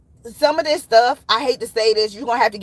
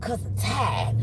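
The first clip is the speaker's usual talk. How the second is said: goofy voice. Pretend. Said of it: "I get goofy".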